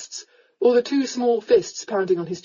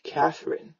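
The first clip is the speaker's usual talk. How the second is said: put-on drunk man repeating; 4 semitones lower, 5 dB quieter than usual. A narrator's reading. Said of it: "he repeated".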